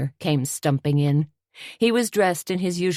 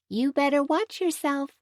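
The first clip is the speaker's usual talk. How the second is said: warning; 12 semitones higher than usual. A narrator's reading. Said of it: "Tony warned".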